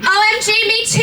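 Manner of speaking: high, excited squeal; happy gush. Acted. Girl replying happily to Satan, excited. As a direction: gush like a fangirl. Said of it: "I replied happily".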